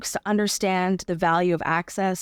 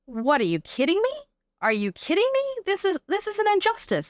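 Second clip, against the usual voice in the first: imagining stunned folks, jumping much higher in disbelief; are you kidding me, half-acted; incredulous outburst; 11 semitones higher than usual. Guest imagining Canadians learning the barriers, in high incredulous disbelief. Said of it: "those folks would be like".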